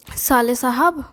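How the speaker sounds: lightly mimicked chummy hail; imitated brother-in-law's call. Brother-in-law trying to befriend the speaker, mimicked chummy call. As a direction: mimic him calling out to get friendly. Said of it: "ऐसे बोलता था".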